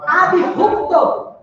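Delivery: "abrupto" slow, high and loud, split ab - rupto; demonstrated pronunciation. Shown as a demonstration. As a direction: punch out "abrupto" slowly as ab - rupto. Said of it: "Qual é a pronúncia de abrupto?". ("abrupto" alto e bem devagar, marcando ab - rupto)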